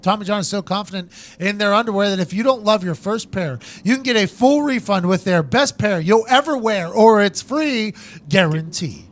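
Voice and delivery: punchy, exaggerated sponsor pitch; announcer-style podcast promo; ad read. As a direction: sell it with deliberate emphasis. Host reads sponsor ad.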